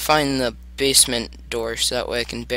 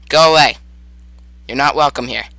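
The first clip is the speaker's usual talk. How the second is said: shouting; 7 dB louder than usual. Real, not acted. Shouting at monster.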